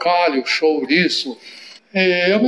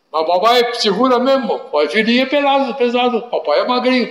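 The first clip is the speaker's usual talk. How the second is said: put-on high, quick little boy conceding; childish giving in; 6 semitones higher than usual. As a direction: cave in like a toddler, pitched up. Child doubts father.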